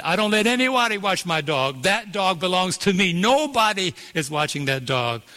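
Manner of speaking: put-on a light French Virgin Island accent, possessive; imitating uncle's French Virgin Island accent; French Virgin Island accent, mildly voiced. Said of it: "in his French Virgin Island accent".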